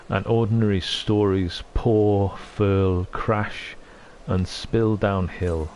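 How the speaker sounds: slow, measured recital of a poem; poem reading. Acted. Streamer reads a poem in tribute to a late friend, slow and solemn. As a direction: let each line settle before the next.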